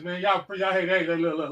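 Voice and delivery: usual speaking voice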